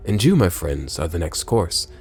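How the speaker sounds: sneering villain mocking caged prisoners, low; lightly voiced gloating villain.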